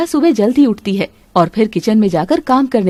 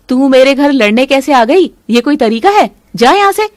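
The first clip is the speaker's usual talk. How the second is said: louder, scolding a maid off the doorstep; angry scolding; 4 dB louder than usual. Acted. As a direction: tell her off sharply, louder. Mother-in-law scolds the maid.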